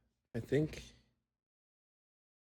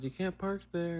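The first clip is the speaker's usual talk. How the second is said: mild mock yell, pitched up; retold yell; 6 semitones higher than usual. Dreamer retells telling off a driver, mild mock yell. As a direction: imitate calling out, without the volume. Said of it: "I just yelled".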